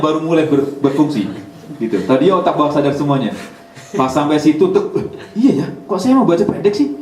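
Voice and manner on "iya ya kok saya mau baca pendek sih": laughing realization. Retold or imitated. Student realizes mistake, laughing.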